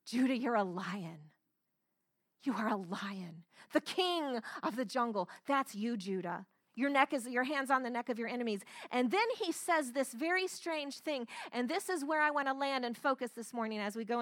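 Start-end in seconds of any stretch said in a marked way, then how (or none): 0.0-8.6 calling out the conqueror. Retold or imitated. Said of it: "He's calling out the conqueror in Judah's life".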